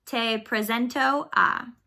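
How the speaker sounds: Te presento a spelled out slowly; slow, careful model phrase. Shown as a demonstration. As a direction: say Te presento a slowly for students to copy. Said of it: "Without the accent".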